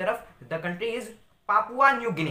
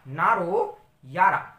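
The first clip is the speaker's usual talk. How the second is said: drawn-out comforting; 3 dB louder, much slower than usual. Pretend. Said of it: "तो आपने कहा".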